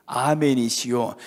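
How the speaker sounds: 아멘이시오 drawn out slowly, each syllable weighted; slow emphasis on the title. Shown as a demonstration. Pastor to congregation, explaining the title, slow stress. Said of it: "그냥 아멘 하고 마친 게 아니잖아요".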